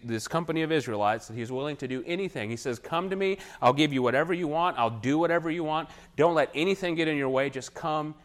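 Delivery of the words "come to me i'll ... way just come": higher, louder desperate plea; desperate begging. Retold or imitated. Balak begs the prophet to come, higher and desperate. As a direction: beg him to come, no matter the price. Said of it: "He's desperate".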